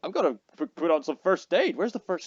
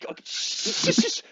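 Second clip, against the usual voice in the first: hushing. Acted. Player hushes friend.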